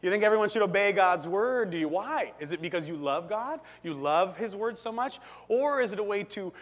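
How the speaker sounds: lightly voiced skeptical philosopher; Nietzsche. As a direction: question their motives suspiciously, with doubtful little hums. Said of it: "that's my Nietzsche impression".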